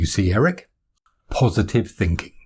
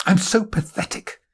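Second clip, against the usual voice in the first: whispering; 11 semitones higher than usual. Acted. Self-pity muttered aside.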